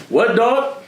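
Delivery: high, punchy "What, dog?" with a rising end; Edwin's catchphrase. Retold or imitated. Imitating Edwin's trademark challenge before he swings. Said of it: "You know that famous "What, dog?".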